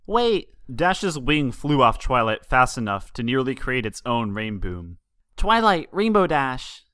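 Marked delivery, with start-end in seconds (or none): 0.1-0.5 sudden high call to stop them; shout. A narrator's reading. Colt calling out to the mares, high sudden shout. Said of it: "another noise pierced the air". 5.4-6.9 high urgent call across the street. A narrator's reading. Colt running up calls the two mares, high urgent shout.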